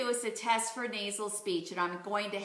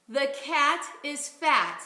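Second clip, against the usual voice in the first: "The cat is fat" repeated even slower; 3 semitones higher, 3 dB louder, slower than usual. Shown as a demonstration. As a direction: echo it slowly, evenly. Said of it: "Let's try this one".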